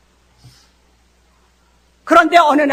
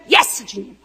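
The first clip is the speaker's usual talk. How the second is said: a soft lower yes, Lord; yielding yes Lord; 5 semitones lower, 3 dB quieter than usual. Shown as a demonstration. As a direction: surrender quietly. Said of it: "이러면 그게 예스가 돼요". (조용히 순종하는 "예스, 주님")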